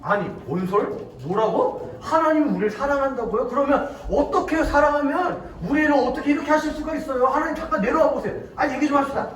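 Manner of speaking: disbelieving, then demanding protest; aggrieved back-and-forth grumbling, played out; acted complaint. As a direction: challenge God with mock indignation. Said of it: "하나님한테 막 불만을 표현했어요".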